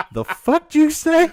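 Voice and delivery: laughing through it, high and loud; a mock baffled snap, breaking into laughter; laughing mock retort. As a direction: blurt it out while cracking up. Retelling his baffled reaction.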